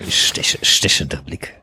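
1 hushed mock porter.

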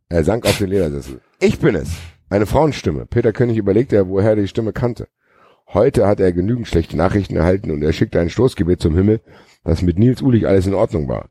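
even read-aloud delivery; story narration. A narrator's reading. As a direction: narrate the action like an audiobook. Reads a novel aloud.

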